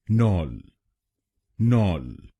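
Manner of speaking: नॉल said as nol with an open o; second syllable. Shown as a demonstration. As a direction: model नॉल clearly. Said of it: "हम बोलेंगे".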